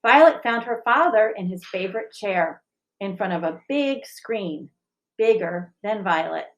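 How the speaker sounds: gentle picture-book reading, even and clear; story narration. A narrator's reading. Teacher reading a picture book to the school, gentle narration. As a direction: read it like storytime for children.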